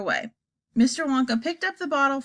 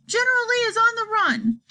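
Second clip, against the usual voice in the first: high triumphant cry; excited cry; 12 semitones higher than usual. Acted. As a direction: crow over the enemy's retreat. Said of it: "she cried".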